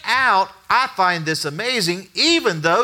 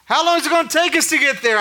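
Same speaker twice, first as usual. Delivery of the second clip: wife's voice; 7 semitones higher, faster than usual. Retold or imitated. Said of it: "She goes".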